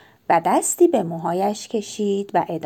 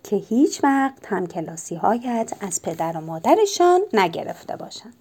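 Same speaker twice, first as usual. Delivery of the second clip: mysterious; 2 semitones lower than usual. Acted. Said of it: "با حالت اسرارآمیزی گفت".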